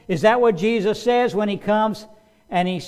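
normal talking voice

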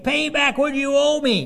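loud, high, angry demand. A narrator's reading. Servant choking his debtor, demanding payment, loud angry demand. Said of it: "he demanded".

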